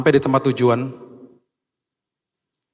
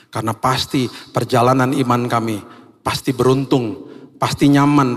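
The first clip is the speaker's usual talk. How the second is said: closing prayer. Acted. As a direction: pray over the church with conviction.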